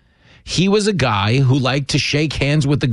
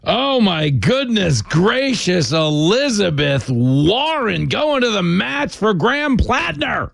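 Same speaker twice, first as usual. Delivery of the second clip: mock amazement; 4 semitones higher, slower than usual. Real, not acted. Mocking Warren endorsement clip.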